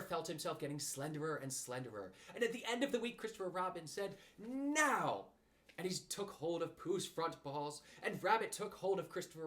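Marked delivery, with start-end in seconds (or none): 4.4-5.3 high, loud command; sharp go signal to all; calling out the signal. Acted. Christopher Robin orders everyone to pull, loud.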